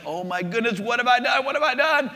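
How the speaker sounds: mock panic, pitch climbing on each question; retold panic. Peter seeing the wind and waves, retold panic. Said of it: "he starts thinking".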